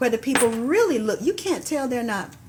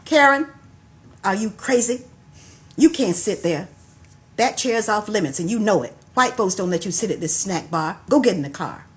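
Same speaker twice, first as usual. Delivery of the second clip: sharp scolding mother, louder; mother's small shout; 5 dB louder than usual. Acted. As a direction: scold the child loudly in public. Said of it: "my mother's voice rang out in a small shout".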